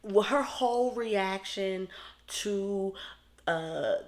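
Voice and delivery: high, loud mock scolding of the Creep Squad; a hammed-up angry auntie telling them off; imitating Chicana. Vlogger voicing Chicana scolding the Creep Squad, loud and high.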